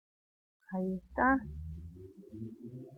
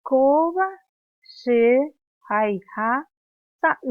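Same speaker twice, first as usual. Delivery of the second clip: Koba she slow, high and loud; loud slow drill; 5 semitones higher, 7 dB louder, slower than usual. Shown as a demonstration. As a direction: stretch the words out loud for the class. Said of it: "repetimos nuevamente".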